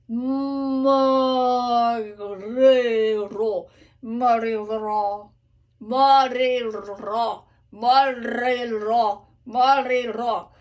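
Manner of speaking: morirò with an unrolled first R, sung slowly; soft first R. Shown as a demonstration. Coach showing the soft first R. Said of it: "first R is a little bit less".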